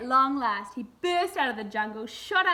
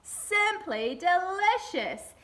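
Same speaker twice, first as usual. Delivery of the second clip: higher, louder, very slow odd creature voice; crocodile voice; 6 semitones higher, 4 dB louder, much slower than usual. A narrator's reading. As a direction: drag it out like a greedy crocodile. Crocodile lunges at ice cream.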